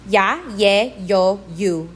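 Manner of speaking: Ya, ye, yo, you each starting on an English Y; Y-glide vowels. Shown as a demonstration. Teacher showing I before a vowel, Y sound in Ya, ye, yo, you. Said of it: "sounds like an English Y".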